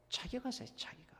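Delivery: whispered aside; hushed answer. Real, not acted. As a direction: drop to a whisper to give the answer. Preacher softly prompts own answer. (속삭이듯 낮춘 대답)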